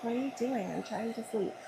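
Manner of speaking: playful mock of a sleepy pet's complaint; voicing the cat. Speaking for the annoyed cat who wants to sleep, soft mock grumble. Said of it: "She's like".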